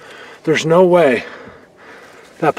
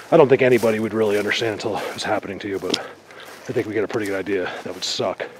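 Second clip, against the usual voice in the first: speaking out of breath after a climb; winded, out of breath, still panting; 3 semitones lower, 4 dB quieter than usual. Real, not acted. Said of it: "Sorry, I'm really out of breath still".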